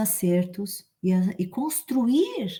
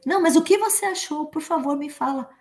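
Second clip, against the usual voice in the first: pleading insisting; 7 semitones higher, faster than usual. Acted. Acted insisting friend.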